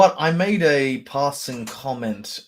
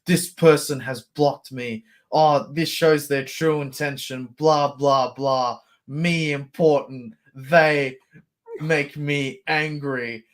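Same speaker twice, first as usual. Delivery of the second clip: mocked online poster; 2 semitones higher, 3 dB louder than usual. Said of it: "people posting pictures of, like".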